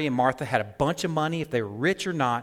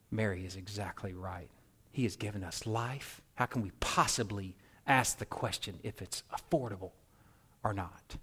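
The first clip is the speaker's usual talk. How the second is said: quiet; 5 semitones lower, 9 dB quieter than usual. Retold or imitated. Lazarus's quiet realization.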